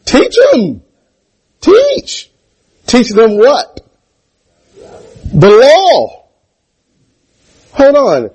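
high, loud shouted call and answer; preaching at full force. Acted. Preacher answering the church's shout, loud and high. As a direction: lift each word up to the rafters.

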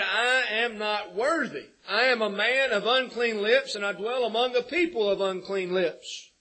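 crying out. Retold or imitated. Preacher quoting Isaiah before God's holiness, crying out. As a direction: cry it out as a confession. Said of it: "he cried out".

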